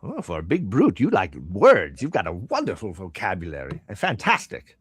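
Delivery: lightly voiced merchant, stretching the praise; a hint of mock admiration; amused shopkeeper. Shopkeeper admiring a big brute's vocabulary, lightly amused.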